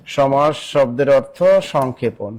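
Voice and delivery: slow, measured repeat for note-takers; slow dictation. Real, not acted. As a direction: spell it out word by word, unhurried. Teacher repeats answer slowly for students. (ধীরে ধীরে, টেনে টেনে বলা)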